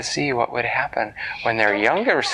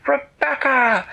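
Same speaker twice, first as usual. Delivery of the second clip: calling out; 11 semitones higher, slower than usual. Acted. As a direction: call her sister to catch the cake. Diana calls her sister over.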